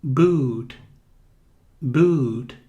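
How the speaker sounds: "Boot" with a long stretched u; drawn-out oo. Shown as a demonstration. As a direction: lengthen the vowel in "Boot". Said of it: "Ou bota".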